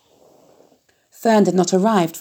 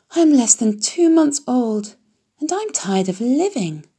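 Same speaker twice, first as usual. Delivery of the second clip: slow, higher mopey pig voice; weary pig; 6 semitones higher than usual. A narrator's reading. Lonely piglet complaining to himself, slow and mopey. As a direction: drag it out like a bored young pig.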